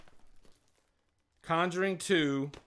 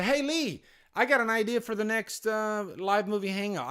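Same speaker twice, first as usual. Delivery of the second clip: imitating a viewer's suggestion; 6 semitones higher than usual. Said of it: "And if you say".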